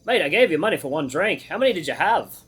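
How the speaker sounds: put-on Australian accent. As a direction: attempt an Australian accent, lilting and insistent. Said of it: "I'm trying to get my Australian accent".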